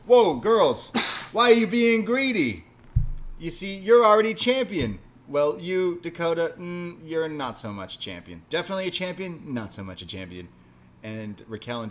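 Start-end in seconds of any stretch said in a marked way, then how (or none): 0.1-5.0 high, loud hyped-up imitation of an excitable wrestler; hyper wrestler voice. Podcast host imitating hyper wrestler taunting champions, high and loud. S0 acts out hyper Everrise duo. 5.3-10.5 high mock taunt; hyper wrestler voice. Host imitating wrestler teasing Dakota, high mocking voice. Continues the hyper duo quote.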